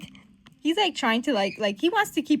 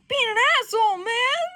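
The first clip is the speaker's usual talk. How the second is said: high, loud, hurt mock wail; wanting to cry; 13 semitones higher, 6 dB louder than usual. Hurt friend telling him off, tearful mock wail. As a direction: wail it as if near tears. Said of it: "He wants to cry".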